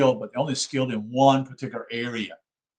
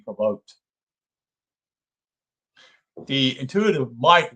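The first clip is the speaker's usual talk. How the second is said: measured, formal book reading; reading aloud. Acted. Lecturer reading a psychology book to listeners, measured read-aloud. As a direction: read the text out in deliberate phrases.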